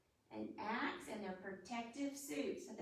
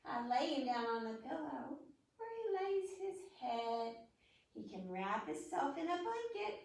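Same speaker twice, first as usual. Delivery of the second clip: reading a rhyme. Acted.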